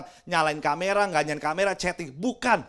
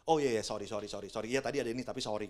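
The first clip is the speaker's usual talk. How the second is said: put-on apologetic girlfriend; 9 semitones lower, 9 dB quieter, faster than usual. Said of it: "paling enggak bilang begini".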